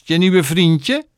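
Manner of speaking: high, loud, drawn-out taunt; mocking laugh. A narrator's reading. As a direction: tease her nastily, slowly. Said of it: "lachte Rosamond". (treiterend, hoog en langgerekt)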